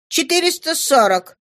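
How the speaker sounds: put-on high, prompt girl's answer; daughter's retort. Daughter gives her father the number, high-pitched answer.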